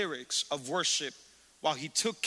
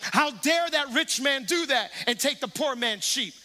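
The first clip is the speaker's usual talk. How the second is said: indignant king; 4 semitones higher than usual. Retold or imitated. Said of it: "David's like".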